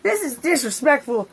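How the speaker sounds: very high hammed-up crying scream; overacted panicked wail, then indignant; mock scream. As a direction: shriek to be let out. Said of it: "I was like".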